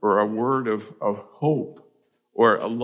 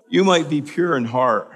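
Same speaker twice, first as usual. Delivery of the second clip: you punched, higher and louder; stress on you; 6 semitones higher, 7 dB louder than usual. Acted. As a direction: hit the word you hard. Preaching emphasis.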